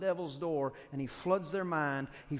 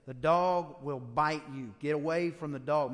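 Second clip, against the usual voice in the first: loud sign warning; 4 dB louder than usual. Pretend. Preacher voicing the sign to the congregation, loud warning. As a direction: boom out the sign's warning.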